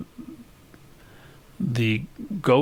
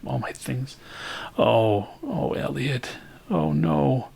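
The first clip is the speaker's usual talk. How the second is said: higher, breaking dismay; panicked; 6 semitones higher, slower than usual. Acted. Karen realizes her uncle is coming, higher with alarm. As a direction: fret in rising alarm.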